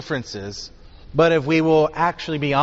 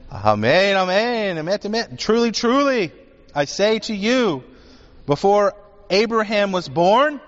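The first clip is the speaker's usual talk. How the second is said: solemn declaration; 5 semitones higher than usual. Acted. Yeshua answering his challengers, solemn and building. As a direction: proclaim it with rising weight.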